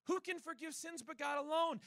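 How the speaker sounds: lightly played accusing Pharisee; indignant Pharisee. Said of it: "this is the Pharisee saying".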